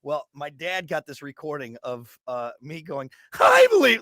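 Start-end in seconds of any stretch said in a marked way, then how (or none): 3.4-4.0 squeaky high voice crack; mock adolescent voice break, loud and high. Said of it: "the way my voice cracked".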